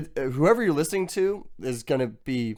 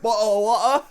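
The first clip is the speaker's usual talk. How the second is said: put-on British accent, dropped T; 7 semitones higher than usual. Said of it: "don't ever say the letter T".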